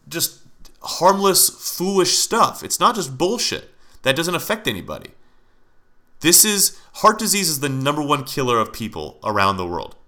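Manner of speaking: heated rant, pitch pushed up, stressing not; real anger building in a podcast rant; getting angry. Real, not acted. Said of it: "Now I'm getting angry".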